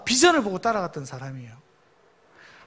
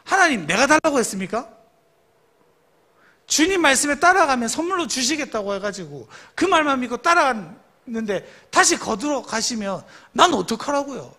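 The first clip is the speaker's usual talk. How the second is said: imitated indignation; 4 semitones higher, 4 dB louder than usual. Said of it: "아브라함 얼마나 화가 나요".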